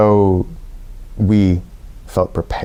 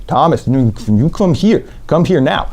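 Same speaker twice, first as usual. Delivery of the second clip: insistent call; 5 semitones higher than usual. Retold or imitated. Man insisting he come over.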